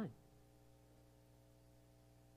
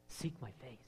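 soft whisper of the Lord; 4 semitones lower, 13 dB quieter, slower than usual. Acted. Preacher voicing the Lord whispering to you, softly. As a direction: hush it as God's whisper. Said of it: "The Lord is whispering to you".

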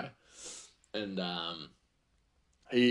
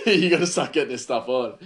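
urging him on; 4 semitones higher, 7 dB louder than usual. Retold or imitated. Urging the slow cook.

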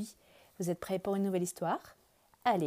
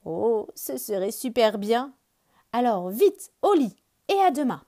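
happy bear; 3 semitones higher, 8 dB louder than usual. Acted. Bear answers happily.

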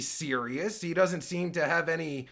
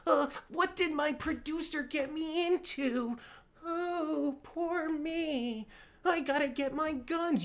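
high, softer whiny mimicry of Tuttle; mocking whine; 9 semitones higher, 4 dB quieter than usual. Host mimicking Tuttle as a whining paranoid victim. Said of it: "and he's like".

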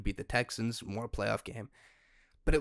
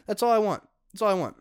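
pleading; 11 semitones higher, 8 dB louder, faster than usual. Real, not acted. Pleading complaint.

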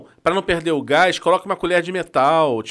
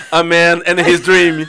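movie trailer voice; 7 dB louder, much slower than usual. Retold or imitated. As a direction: do the epic trailer narrator. Imitando voz de trailer. (voz de narrador de trailer)

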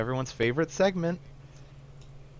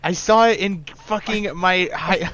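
mock kid voice; 10 semitones higher, 6 dB louder than usual. Mocking playground rumor kids.

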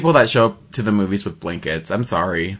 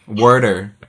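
Boston accent; 4 semitones lower than usual. Shown as a demonstration. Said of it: "that thick Boston accent".

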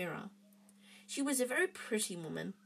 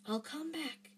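soft, higher hushed promise; whispered; 6 semitones higher, 6 dB quieter than usual. A narrator's reading. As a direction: breathe it quietly toward his mother.

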